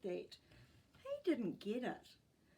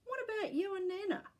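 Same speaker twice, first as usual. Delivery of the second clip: snapped; 11 semitones higher, 5 dB louder, faster than usual. A narrator's reading. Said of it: "snapped Tyson".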